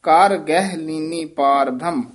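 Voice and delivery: ਕਰ set apart from ਗਹਿ; distinct ਕਰ, then ਗਹਿ; separated words. Shown as a demonstration. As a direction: say ਕਰ as its own word before ਗਹਿ ਲੀਨੀ. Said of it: "ਇਹ ਵੱਖਰਾ ਹੀ ਕਰਨਾ".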